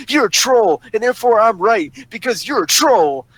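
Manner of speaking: exaggerated mocking sing-song; mocking imitation. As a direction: mimic a smug, dismissive arguer. Mocks those who use the word.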